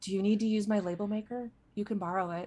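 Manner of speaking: soft murmur, said under the breath. Retelling what a woman would say to someone, under her breath. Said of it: "Iris would go like under her breath".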